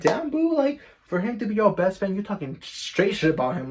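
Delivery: high, loud disbelief; stunned at the friend's betrayal; shocked. Retold or imitated. Telling the friend off, high and shocked.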